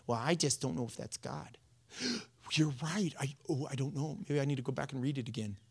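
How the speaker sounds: soft, fast, faltering timid voice; timid doubter. Pretend. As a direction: mumble it like a scared doubter. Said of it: "The first little criticism".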